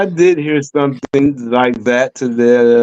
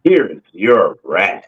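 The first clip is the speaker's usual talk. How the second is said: flat bored voice; 8 semitones lower, much slower than usual. Pretend. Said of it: "one of them Asian girl".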